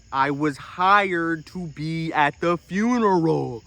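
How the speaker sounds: exasperated hot dog man snapping back; indignant. Retold or imitated. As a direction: push back, getting fed up. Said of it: "And I'm like".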